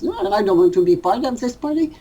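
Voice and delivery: fast mock refusal, rattled off; ego refusing. Teacher voicing his ego refusing the party, quick mock protest. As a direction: hurry through it like a stubborn ego. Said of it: "my ego says".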